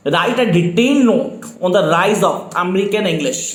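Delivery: very slow, each word spelled out for note-taking; slow dictation. Shown as a demonstration. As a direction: dictate it slowly so students can write. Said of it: "speed definitely slow है मेरी". (धीमी गति से dictation)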